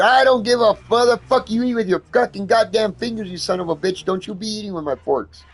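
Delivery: high, loud yelling tirade; replaying his own shouting at the roommate; retold rant. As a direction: tear into her over the fork. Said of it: "I said".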